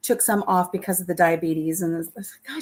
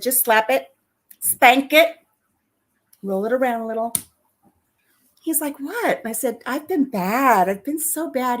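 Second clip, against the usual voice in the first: flirty teasing; 4 semitones higher than usual. Retold or imitated. Teasing the doctor.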